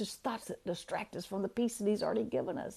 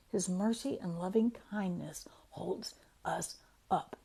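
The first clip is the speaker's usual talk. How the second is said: tender hush; 2 semitones lower, 6 dB quieter than usual. Real, not acted. Tender scripture reading.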